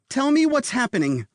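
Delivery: nanny on the edge of panic demands answers; borderline panic. A narrator's reading. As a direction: hold back panic and barely manage. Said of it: "the borderline panic".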